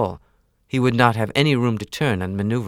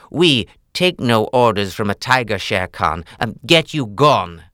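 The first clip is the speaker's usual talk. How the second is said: louder, firm wolf voice; defiant Father Wolf; 6 dB louder than usual. Acted. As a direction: stand up to the tiger, firm. Father Wolf defies the tiger.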